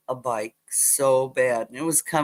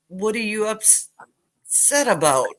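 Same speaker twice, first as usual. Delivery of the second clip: put-on high confused child; 6 semitones higher, slower than usual.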